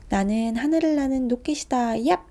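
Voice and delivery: loud, bright child's shout playing rocket; playful rocket cry. Boy throwing his plane, loud playful shout. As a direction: launch it like a rocket, yelling.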